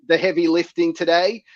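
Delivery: raspy, hoarse throat; talking with a sore throat. Real, not acted. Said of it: "given my throat".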